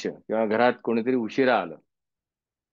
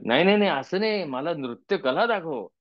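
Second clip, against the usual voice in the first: mock insistent argument; 5 semitones higher than usual. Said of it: "असं जर का मी त्याशी भांडायला लागलो".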